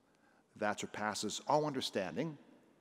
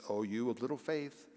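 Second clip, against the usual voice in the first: gentle rebuke; 3 dB quieter than usual. Acted. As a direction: tenderly ask why he doubted. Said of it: "and gently says".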